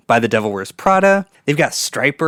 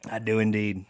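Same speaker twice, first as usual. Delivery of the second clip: whispered; 3 semitones lower, 7 dB quieter than usual. Pretend. Whispered repeat.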